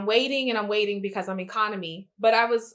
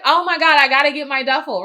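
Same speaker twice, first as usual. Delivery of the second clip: raised, high, urgent voice; frantic plea; 5 semitones higher, 7 dB louder, faster than usual. Retold or imitated. Traveler begs crew for her duffel, acted frantic plea. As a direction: plead in mock panic, voice up. Acts plea to gate staff.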